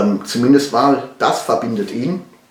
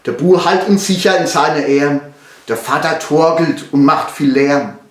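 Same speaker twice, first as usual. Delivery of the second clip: Palatinate dialect; 4 semitones higher, 3 dB louder than usual. Shown as a demonstration. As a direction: narrate the ballad in broad Pfälzisch. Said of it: "vom Erlkönig auf Pfälzisch". (Balladenvortrag auf Pfälzisch)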